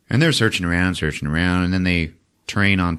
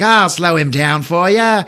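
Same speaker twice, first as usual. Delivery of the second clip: higher, slow, sneering threat; menacing thug; 10 semitones higher, 6 dB louder than usual. Retold or imitated. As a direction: taunt while taking aim. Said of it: "The other guy's like".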